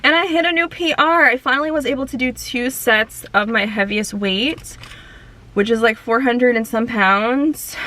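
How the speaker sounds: breathless after heavy hip thrusts; panting between words; out of breath. Real, not acted. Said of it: "out of breath 'cause those hip thrusts took me out".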